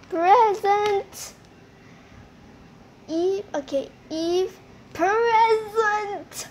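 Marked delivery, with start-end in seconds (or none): 0.1-1.3 clear answer. Pretend. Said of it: "Say present".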